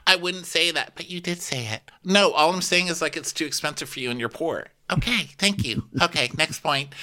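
high, put-on back-and-forth squabble; mock bickering. Friends arguing over who said it, high mock bickering.

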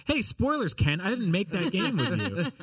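high-pitched mock yell, half laughing; retold yell. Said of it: "I yelled at him".

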